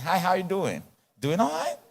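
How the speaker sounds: put-on American accent greeting; lightly imitated American accent. Shown as a demonstration. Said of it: "I deactivate my American accent".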